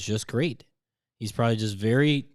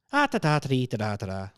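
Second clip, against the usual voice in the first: Irish accent. Shown as a demonstration. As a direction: lilt nonsense syllables in a playful Irish accent. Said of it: "Irish accent".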